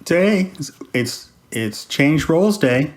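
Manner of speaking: high, eager burst; excited interruption. Real, not acted. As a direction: jump in excitedly. Interrupting to take host role.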